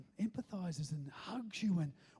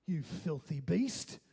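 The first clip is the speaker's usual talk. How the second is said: acted-out scolding with heavy, punched stresses; imitating judgmental confessor. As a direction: lay on the judgment, word by heavy word. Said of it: "waiting for all this judgment".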